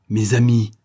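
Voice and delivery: hoarse broken cry. Acted. The major mourning his dead comrades, hoarse broken cry. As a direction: let the voice break on amis. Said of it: "d'une voix rauque et brisée".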